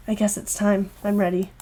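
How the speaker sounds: low, soft acceptance; understated calm goodbye; resigned. Acted. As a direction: face the end quietly.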